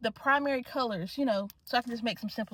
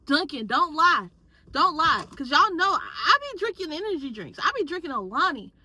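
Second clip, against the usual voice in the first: loud, jittery and hyped; wired and talking loud; too much caffeine; 3 semitones higher, 5 dB louder than usual. Real, not acted. Buzzing from strong coffee.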